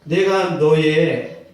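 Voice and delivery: slow, solemn declaration; God's answer. Retold or imitated. God answering the suffering soldier, slow and solemn. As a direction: pronounce it slowly like a promise. Voices God's reply slowly.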